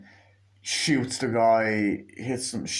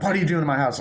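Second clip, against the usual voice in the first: mock-indignant woman, slightly raised and higher; startled homeowner; 5 semitones higher, 4 dB louder, much faster than usual. Woman finding strangers in her house, mock indignation. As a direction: retell a startled challenge to intruders. Retold homeowner confronts intruders.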